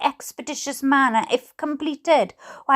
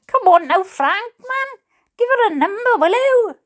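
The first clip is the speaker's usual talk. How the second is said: exasperated plea; 8 semitones higher than usual. Real, not acted. Pleading with the attorney to give a number, exasperated coaxing. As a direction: come on, just give it to her.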